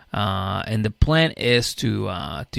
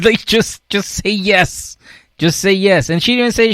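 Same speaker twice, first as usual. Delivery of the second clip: much higher, louder laughing rant; excited squeal; 10 semitones higher, 7 dB louder than usual. Real, not acted. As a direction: shriek it in excited disbelief.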